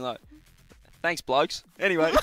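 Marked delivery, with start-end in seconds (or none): 1.0-1.6 lightly put-on Australian accent. Shown as a demonstration. Caster demonstrating a first line after the throw, mock Australian accent. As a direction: toss it off like an Aussie. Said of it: "like, Australian".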